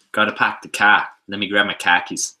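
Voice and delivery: imitating a Boston accent. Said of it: "That Boston accent".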